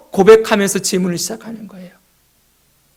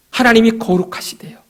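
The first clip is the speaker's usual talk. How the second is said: whisper. Real, not acted. Preacher whispers to the congregation about God's holiness. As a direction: drop to a hush for emphasis. Preacher comments between verses.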